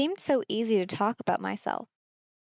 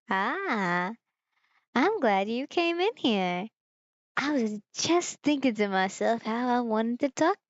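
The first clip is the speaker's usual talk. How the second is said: put-on country accent. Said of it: "I'm gonna give him a country accent".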